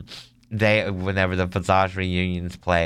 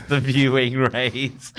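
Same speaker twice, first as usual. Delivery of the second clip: laughing; 5 semitones higher, slower than usual. Real, not acted. Laughing repeat of the name.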